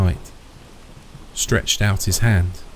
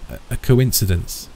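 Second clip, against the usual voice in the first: stumbling stammer on the first word; 4 semitones higher than usual. Acted. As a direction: trip over the start, stammering. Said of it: "stammered the old man".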